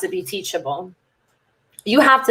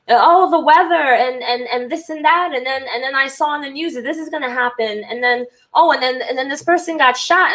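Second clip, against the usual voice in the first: higher, fretful mock-mom chatter; imitating worried mom; 4 semitones higher than usual. Imitating her mom calling about the weather, higher and fretful. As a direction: lightly play a worrying mother listing bad news.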